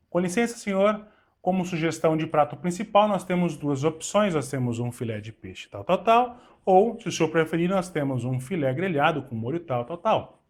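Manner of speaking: courteous suggestion, punching each option; waiter's sales pitch. Shown as a demonstration. Waiter offering a guest two dishes, courteous and persuasive. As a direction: lean on the options to steer the guest. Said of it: "Dependendo da entonação de voz".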